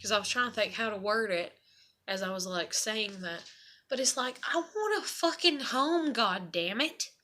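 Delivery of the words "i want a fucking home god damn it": higher, slower, exasperated cry; fed up and pleading, dragging the words; frustrated outburst. Real, not acted. Frustrated rant about moving again.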